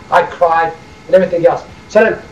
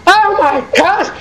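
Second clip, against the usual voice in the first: stunned gasp; 8 semitones higher, much slower than usual. Retold or imitated. Sister's shocked reaction.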